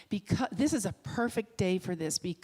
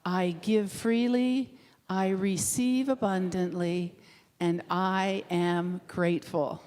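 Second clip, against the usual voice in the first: slow, loud unison-style affirmation; recited affirmation; 4 dB louder, slower than usual. Acted. Leading the congregation in a slow spoken affirmation. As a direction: intone it slowly like a creed.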